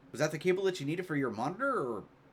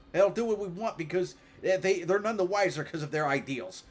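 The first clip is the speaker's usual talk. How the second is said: her character voice; 3 semitones higher, 3 dB louder than usual. Acted. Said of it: "should I do her voice now".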